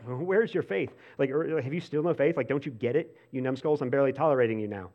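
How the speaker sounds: mock exasperated, scornful Jesus; impatient teacher scolding dim pupils; snarky sarcastic. Shown as a demonstration. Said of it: "that sounds, like, snarky and sarcastic".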